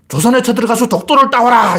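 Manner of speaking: high, declaimed mock order; acted imperial proclamation; emperor's command. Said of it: "이렇게 명령을 못 내리는 거예요".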